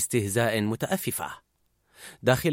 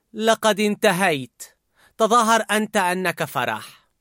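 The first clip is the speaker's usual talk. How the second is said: fed-up Disgust; 6 semitones higher than usual. A narrator's reading. Disgust turning to Fear, fed up. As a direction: hand it off high and bored. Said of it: "وردت اشمئزاز".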